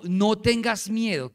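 slow, emphatic, stretched-out delivery; firm reassurance. Acted. Elisha to his frightened servant, firm reassurance. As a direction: proclaim it steadily, every word drawn out. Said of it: "Eliseo le dijo".

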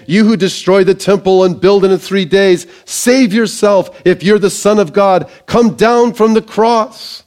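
mocking taunt. Passersby jeering at Jesus on the cross, mocking. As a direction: call it out as a scoffer's taunt. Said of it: "they blasphemed, and they said this".

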